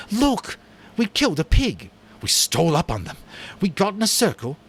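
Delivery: high, loud, breathless boasting; excited hail. Acted. Jack hails Ralph from the mountaintop, thrilled. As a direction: burst out with the hunt news. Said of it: "hailed Ralph excitedly".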